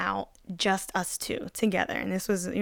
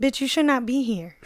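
slightly raised, mock-scolding inner voice; little sober voice; 4 semitones higher than usual. Sober voice in her head warns her to leave, scolding. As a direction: imitate your conscience telling you off. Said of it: "a little sober voice that's like".

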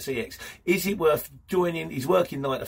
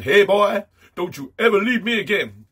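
put-on loud, high Southern cowboy accent; 6 semitones higher, 8 dB louder than usual. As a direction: play a lovesick Southern trucker, in accent. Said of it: "Don't know why I keep doing accents".

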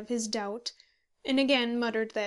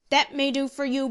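indignant; 3 semitones higher, 7 dB louder than usual. A narrator's reading. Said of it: "exclaimed Handy".

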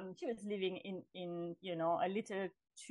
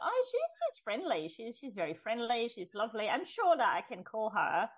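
hopeful inner thought; 2 semitones higher than usual. Retold or imitated. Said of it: "I thought".

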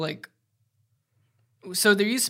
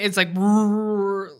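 mock brrrr sound; 2 semitones higher, 4 dB louder, much slower than usual. Shown as a demonstration. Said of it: "I don't know how to explain".

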